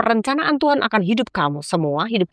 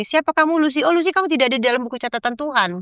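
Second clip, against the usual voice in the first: angel at heaven's gate; 8 semitones higher than usual. Retold or imitated. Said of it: "cuma bilang gini".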